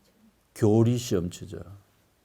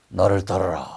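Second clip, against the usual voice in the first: lightly voiced solemn call, lower; Jesus; 5 semitones lower than usual. Jesus calling the seated tax collector, lightly voiced solemn command. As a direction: give a low, understated command to follow.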